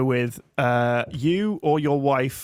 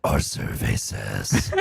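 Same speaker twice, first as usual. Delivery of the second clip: game show announcer; much slower than usual. Pretend. Game show reveal imitation.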